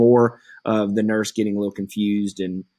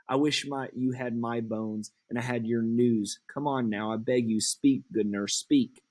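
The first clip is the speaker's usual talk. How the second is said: soft urgent begging; pleading Juliet; 7 dB quieter than usual. Acted. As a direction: quietly beg her to speak. Juliet begging the nurse to speak.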